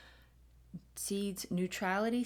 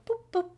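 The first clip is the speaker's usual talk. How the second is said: small, high-pitched boop; a light, playful "boop"; little boop; 12 semitones higher, 5 dB louder than usual. Shown as a demonstration. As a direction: pop out a tiny boop sound. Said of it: "just this little quiet little".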